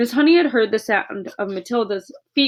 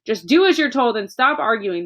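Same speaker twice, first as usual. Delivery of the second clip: snapped; 2 semitones higher, 3 dB louder than usual. Acted. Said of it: "the father snapped".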